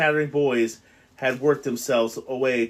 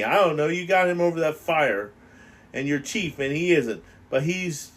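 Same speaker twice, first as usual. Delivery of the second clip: higher, anxious schoolboy voice; a lightly voiced nervous boy complaining; fretful fat boy Piggy; 3 semitones higher than usual. Piggy confides his fear of Jack to Ralph, higher and anxious.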